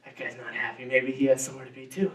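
soft, regretful muttering to oneself; second-guess yourself after honking; hushed remorse, quick at the end; guilty murmur. Retold or imitated. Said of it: "I'd be".

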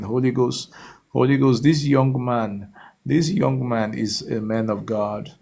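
rising, insistent prayer chant; fervent prayer. Acted. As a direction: pray over him with building fervor. Fervent prayer over a caller.

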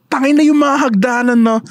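imitating their podcast voice. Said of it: "nandun yung boses natin".

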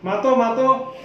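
playful prompting in Sylheti; Sylheti dialect. Pretend. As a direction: urge them on with Sylheti words. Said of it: "Sylheti ভাষা মাতো".

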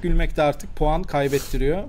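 ordinary talk

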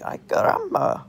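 loud, high exclaimed "Ay, caramba"; retold yelp at the doctor. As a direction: belt it out like a cartoon. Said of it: "That's what I said".

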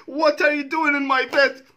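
loud, high, laughing through a retold panic; cracking up while acting out waking next to a stranger; retold wake-up shock. Reacting to a Walter joke, he laughs through his own shocked morning quote. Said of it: "I'm like".

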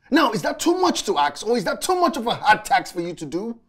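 exasperated reproach, climbing in pitch; animosity. Acted. Man pleading with visiting friend for time, resentful. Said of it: "where is this animosity coming from?".

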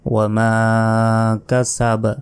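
ওয়া মা কাসাব with মা held long; stretched মা. Shown as a demonstration. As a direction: pull out the মা. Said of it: "টান দিতে হবে".

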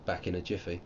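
halting, tripping over words; stuttering. Real, not acted. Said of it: "Oh, I'm stuttering".

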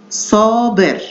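صابر with a long first "saa"; saa-ber, carefully sounded, for صابر; model pronunciation. Shown as a demonstration. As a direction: hold the first vowel of صابر. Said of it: "حرف المد الطويل الألف".

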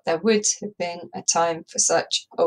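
clock-like even beats; tick-tock rhythm. Shown as a demonstration. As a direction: read it like a ticking clock. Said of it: "like the tick-tocking of a clock".

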